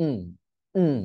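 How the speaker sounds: "উম" as a closed hum from inside; short vowelless nasal hum on "উম"; syllabic N sound. Shown as a demonstration. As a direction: hum "উম" straight after a stopped breath. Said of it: "এই ধরনের একটা sound করবেন".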